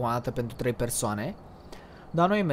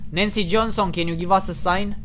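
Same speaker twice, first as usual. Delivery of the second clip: raised, louder English call; calling to a ghost; 3 semitones higher, 6 dB louder than usual. Real, not acted. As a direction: address the unseen spirit loudly and clearly. (chemare cu glas ridicat către o fantomă)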